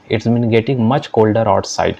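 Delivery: slow, careful classroom English; deliberate teacher read-aloud; slow model reading. Shown as a demonstration. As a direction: spell each word out slowly for learners. Teacher reads model sentence.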